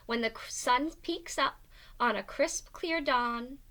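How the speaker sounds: lively storybook narration; reading to children. A narrator's reading. Teacher reading a picture book aloud. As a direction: read it out to the class with bounce.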